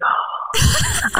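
high surprised little oh; impressed oh. Retold or imitated. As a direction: pleasantly caught off guard. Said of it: "I was like".

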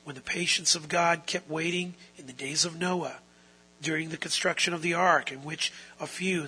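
measured, even Bible reading; solemn scripture read. Acted. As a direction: read the passage steadily to the congregation. Reads scripture passage aloud.

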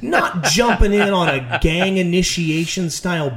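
high, slow disbelieving rant; incredulous. Retold or imitated. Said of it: "I remember watching that mugging and being like".

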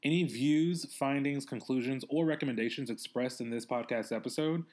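measured podcast announcement read; scripted show intro; sponsor read. Acted. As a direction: read the credit and disclaimer neatly.

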